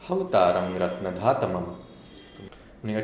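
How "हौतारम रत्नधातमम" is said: हौतारम रत्नधातमम said slowly, syllable by syllable, lower pitch; slow careful pronunciation. Shown as a demonstration. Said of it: "उच्चारण होगा".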